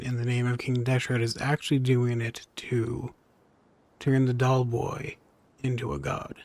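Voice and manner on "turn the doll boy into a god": ordinary talk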